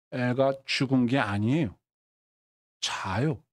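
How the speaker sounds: low, composed, measured statement; coolly authoritative. Acted. Jesus telling mourners the child sleeps, coolly authoritative. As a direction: state it quietly and surely. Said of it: "예수님이 딱 멋있게 이렇게 말합니다".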